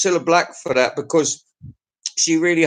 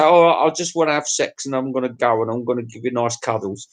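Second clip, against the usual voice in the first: mock sweet talk; 5 semitones lower than usual. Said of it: "and you just say".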